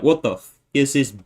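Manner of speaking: hammed-up British accent, rising in pitch; mock English accent. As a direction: do an exasperated English bloke complaining. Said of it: "actual English people be like".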